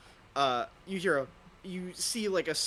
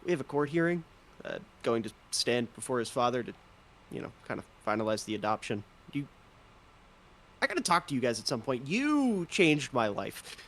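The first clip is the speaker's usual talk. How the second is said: lightly voiced drow. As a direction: lean back and chat it easily. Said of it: "he leans back and he goes".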